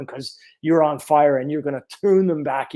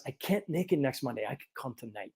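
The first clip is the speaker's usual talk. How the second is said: quiet patient; 2 semitones lower, 12 dB quieter than usual. Retold or imitated. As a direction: say it offhand, barely audible. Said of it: "my next patient says".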